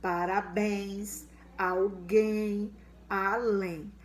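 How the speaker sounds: Parabéns said slowly, alguém and além said clearly; like dictating to the class; example words said clearly. Shown as a demonstration. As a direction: present each word with care. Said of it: "as palavrinhas com em e ens".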